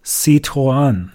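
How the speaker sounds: Citroën retried in French, sit-ron; French pronunciation. Shown as a demonstration. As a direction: say Citroën a third time in French. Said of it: "再试一次". (第三次尝试法语 Citroën)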